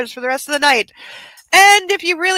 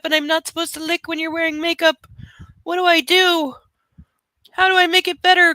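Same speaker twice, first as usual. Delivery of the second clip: lightly voiced pleading puppy; disappointed puppy; 3 semitones higher than usual. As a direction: plead like a let-down puppy, voice slightly raised. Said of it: "He's really disappointed 'cause he's like".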